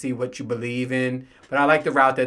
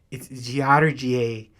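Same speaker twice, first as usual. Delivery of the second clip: slow correction; much slower than usual. Retold or imitated. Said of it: "he goes".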